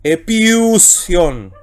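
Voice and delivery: "epiusion" slow, falling at the end; slow Greek word for the class; slow demo word. Shown as a demonstration. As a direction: say "epiusion" slowly to close it. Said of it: "Por eso leo".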